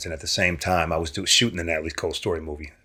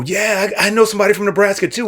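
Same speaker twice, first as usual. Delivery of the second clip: mocking reply; 13 semitones higher, 5 dB louder, faster than usual. Retold reply to actor friend.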